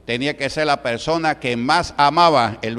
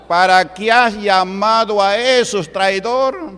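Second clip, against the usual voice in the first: loud, higher, slow accusing snarl; furious devil; 7 semitones higher, 6 dB louder, slower than usual. Retold or imitated. Devil accusing the brujo of betrayal, loud and furious. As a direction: hammer the accusation at the traitor. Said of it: "Así le decía el diablo".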